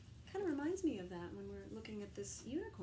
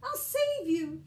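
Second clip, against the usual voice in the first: loud, slow, high heroic promise; hammed-up hero voice; heroic chime; 9 semitones higher, 11 dB louder, slower than usual. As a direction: ring it out like a brave rescuer. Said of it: "he'd chime back".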